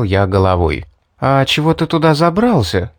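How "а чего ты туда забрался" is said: puzzled. Acted. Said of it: "сделала недоумённое личико Мэри".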